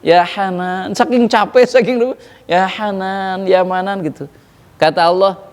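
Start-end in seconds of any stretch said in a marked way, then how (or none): 0.0-4.2 broken faint plea. Acted. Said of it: "suaranya itu sudah terputus-putus".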